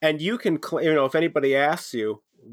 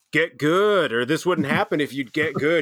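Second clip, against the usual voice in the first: retold taunt; 5 semitones higher than usual. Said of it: "and I'd be like".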